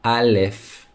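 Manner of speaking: "Aleph" said clearly for repeating; model pronunciation. Shown as a demonstration. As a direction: say "Aleph" as a teacher leading learners. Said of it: "let's say it together".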